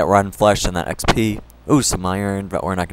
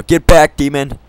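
frantic yell; 5 semitones higher, 5 dB louder than usual. Real, not acted. Fending off a creeper.

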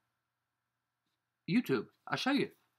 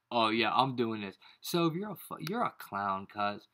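normal talking voice

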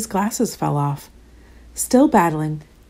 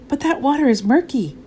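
mild yell; 7 semitones higher than usual. A narrator's reading. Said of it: "yelled Dev".

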